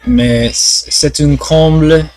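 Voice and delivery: hesitant French with English accent; foreign accent in French. Real, not acted. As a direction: stumble through French like a beginner. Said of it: "Je suis toujours un débutant".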